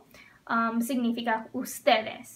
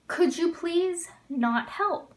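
slow and a bit higher; slow model phrase; 4 semitones higher, slower than usual. Shown as a demonstration. Teacher modeling a formal command for students, slow. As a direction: spell it out for the class. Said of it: "teacher modeling formal command".

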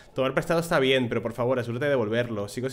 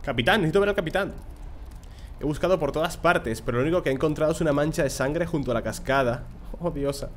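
lightly higher, hurried worried mother; anxious mother; 3 semitones higher than usual. Acted. Mother urging the guard to fetch the captain, hurried. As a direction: push to see the captain, a bit fast.

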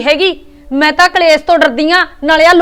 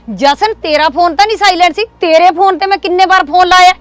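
raised, higher voice in exasperation; angry scolding; 5 semitones higher, 3 dB louder than usual. Acted. Mother scolds son for not answering, raised angry voice. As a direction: scold him, louder and higher.

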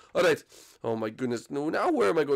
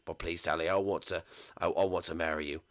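lovesick boss; 8 semitones lower, 8 dB quieter than usual. Acted. Boss confesses love.

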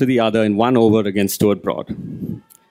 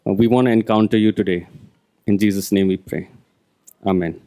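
prayer; 2 semitones lower than usual. Real, not acted. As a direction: pray it gently and sincerely. Pastor prays before sermon.

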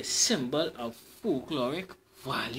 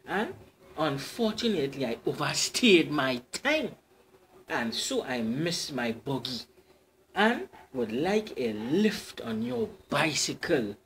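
fair lady explaining; 4 dB louder than usual. Acted. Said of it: "The fair lady explained".

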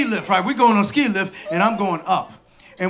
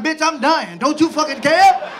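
drawn-out, exasperated gripe; out of breath and fed up; exasperated complaint; 4 semitones higher than usual. Retold or imitated. Snapping at his wife while out of breath. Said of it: "I'm like".

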